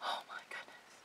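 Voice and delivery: breathless whisper of wonder; awed whisper. Real, not acted. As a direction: whisper it in awe.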